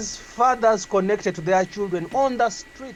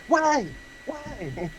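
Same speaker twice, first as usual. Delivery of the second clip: imitated questioning child; 7 semitones higher, 4 dB quieter than usual. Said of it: "and they will ask you".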